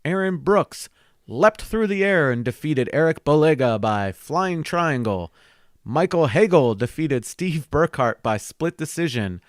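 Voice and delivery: dramatic sports announcer read. Acted. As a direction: call it out like an announcer. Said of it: "I sound like a Bates Ball announcer".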